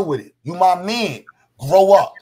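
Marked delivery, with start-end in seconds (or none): 1.6-2.2 sharp, much louder command; loud scolding. Real, not acted. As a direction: bark it at him to shut it down. Heated argument, scolding the other man.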